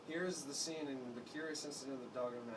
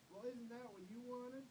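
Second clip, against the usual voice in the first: shouting; 10 semitones higher, 7 dB quieter than usual. A narrator's reading. Father accusing mother, bitter shout. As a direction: fling it at her. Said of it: "And Father shouted".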